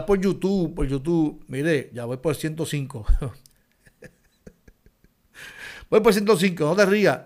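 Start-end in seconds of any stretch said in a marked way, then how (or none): 5.9-7.2 high, cracking up mid-line; fighting back a laugh; trying not to laugh. Real, not acted. Laughing at own subscriber count.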